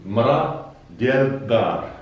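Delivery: mra diel dar spelled out slowly, each word separate; careful Moroccan phrase demo; slow pronunciation demo. Shown as a demonstration. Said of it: "You have now this expression".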